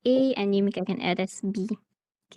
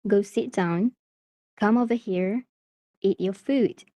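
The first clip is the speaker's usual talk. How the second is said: "down", "here" and "food" as falling phrase ends; falling intonation. Shown as a demonstration. Teacher showing learners a falling pitch at the end, falling intonation. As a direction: let the pitch drop on "food" to close the command. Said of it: "Do you hear that falling pitch at the end?".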